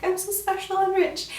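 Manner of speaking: high-pitched mock boasting; hammed-up bragging in a high voice; mock self-important brag. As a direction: play a pleased-with-themselves rich person, pitched high. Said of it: "you'd just be all like".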